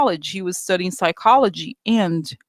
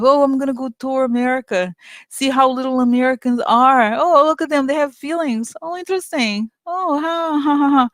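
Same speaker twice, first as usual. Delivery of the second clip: much higher, condescending cooing voice ending in a fake laugh; mocking Zuckerberg; 6 semitones higher than usual. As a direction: act out a boss marvelling at tiny Americans, then a fake ha ha. Mocking Zuckerberg touring America condescendingly.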